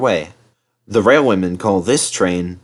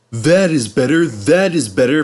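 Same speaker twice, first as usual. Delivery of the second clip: raised, rhythmic contented chant; happier puffing; 4 semitones higher than usual. Acted. Henry as the train gathers speed, happier chant. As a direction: puff it out with relief. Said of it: "puffed Henry more happily".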